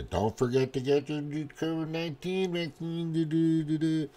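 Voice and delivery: high, soft singsong jingle; mock store announcement. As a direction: parody a cheery in-store PA reminder. Mimics grocery store vaccine announcement.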